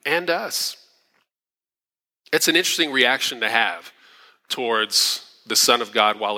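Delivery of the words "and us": high, slow sneer; mocking criminal. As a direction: drag it out with contempt. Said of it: "He says".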